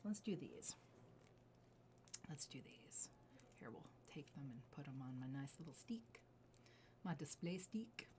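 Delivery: soft whispered narration while arranging; hushed running commentary. Real, not acted. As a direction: murmur it as you work. Setting pieces out quietly.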